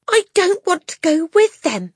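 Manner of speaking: put-on high, loud defiant child; shouting. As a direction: shout it suddenly. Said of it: "Matilda shouted suddenly".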